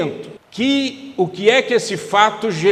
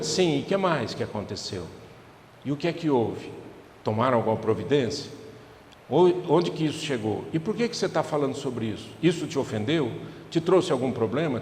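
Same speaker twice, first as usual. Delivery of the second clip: soft, lower, gentle questions; calm listening parent; 5 semitones lower, 6 dB quieter than usual. Acted. Mother calmly questioning her son about school, soft and patient. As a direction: ask patiently without judging.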